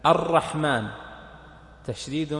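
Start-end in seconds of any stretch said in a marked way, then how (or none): 0.1-0.9 الرحمن with a strongly doubled r; marked shadda. Shown as a demonstration. Teacher counting the shaddas, الرحمن with its r firmly doubled. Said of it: "براء الرحمن".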